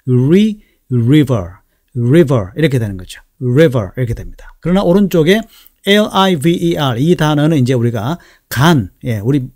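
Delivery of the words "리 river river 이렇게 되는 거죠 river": "river" with lips forward, R starting like "위"; teacher's careful "river", tongue touching nothing on the R; rounded-lip R. Shown as a demonstration. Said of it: "입술이 앞쪽으로 살짝 나오면서".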